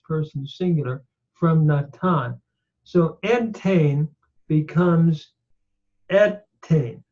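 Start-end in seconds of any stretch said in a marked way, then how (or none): 2.8-7.0 entain said slowly, then etain; sound change demo. Shown as a demonstration. Teacher showing nun assimilation, careful. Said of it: "because the noon has assimilated".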